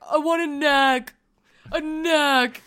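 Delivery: put-on I want a "snack" said "nack", dropping the s, in a toddler voice; a toddler begging mom, "snack" said as "nack"; imitating toddler speech. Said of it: "which is how he says".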